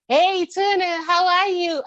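mocking coworkers' fake cheer; mock fake-friendly greeting. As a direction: imitate a two-faced sweet hello.

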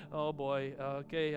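low, acted unease; sheepish reaction. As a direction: brace sheepishly for the verdict. People react sheepishly to God.

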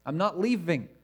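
emphatic. Retold or imitated. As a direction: put your foot down, no arguing. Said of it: "It's very emphatic".

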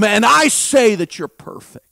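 loud God's proclamation; booming divine statement; loud declaration. Acted. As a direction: declare it as God. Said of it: "I am who I am".

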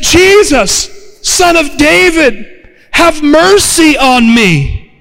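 high, lingering appeal; desperate plea. Retold or imitated. Desperate mother calling to Jesus, pleading. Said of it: "she was desperate".

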